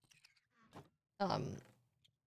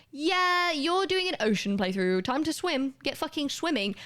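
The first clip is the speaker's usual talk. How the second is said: high cheeky game voice, lightly voiced; game's voice; 5 semitones higher than usual. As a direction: play the smug game telling you to swim. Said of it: "The game would just go".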